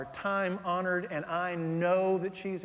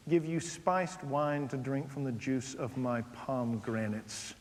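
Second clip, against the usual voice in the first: scripture reading; 3 semitones lower than usual. Acted.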